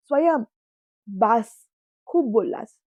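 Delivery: mother scolding her son, loud and stern; angry. A narrator's reading. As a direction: shut him up firmly. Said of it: "त्या स्वयंवर रागावल्या".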